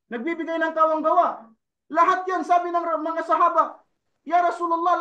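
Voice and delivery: fervent preacher retelling a hadith; sermon preaching. Acted. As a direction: preach it with rising fervour.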